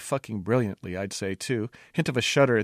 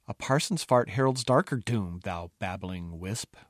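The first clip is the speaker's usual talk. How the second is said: ghostly whisper; 2 semitones lower than usual. Acted. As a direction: breathe the insult like a spirit. Ghost answers the jester.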